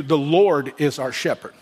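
"Lord" held up as the key word; stress on Lord. Real, not acted. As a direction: lean on "Lord", then ease through the rest. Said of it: "catch the emphasis on the word Lord".

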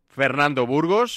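mock-ceremonial roll call; award announcer. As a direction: draw out the name like a prize reveal.

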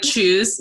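imitated British CHOOSE; British pronunciation. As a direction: say CHOOSE as a Brit starts Tuesday. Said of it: "somebody speaking in a British accent".

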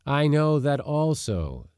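testy, pressing each word; irritably. A narrator's reading. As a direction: snap back, fed up. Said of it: "said Leonard Sale irritably".

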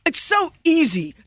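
lightly mocking ex-husband; a hint of smug ex; whiny ex impression. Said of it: "My ex-husband would be like".

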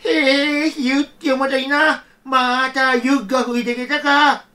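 put-on a gentle old man talking to himself in the snow; a hint of a kindly grandfather. Grandfather voiced in folktale.

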